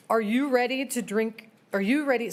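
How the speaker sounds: rising heat, pressing the question; worked up and demanding answers; getting worked up. Real, not acted. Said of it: "I'm getting worked up".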